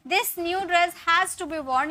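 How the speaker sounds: very slow, words spaced out; slow dictation. Shown as a demonstration. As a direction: dictate slowly. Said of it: "ठीक है". (धीरे-धीरे लिखवाना)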